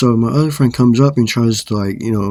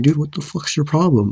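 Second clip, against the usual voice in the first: retold higher-pitched challenge; re-enacted indignant demand; angry confrontation; 6 semitones higher than usual. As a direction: confront them in an acted-out protest. Retelling confrontation after a shove.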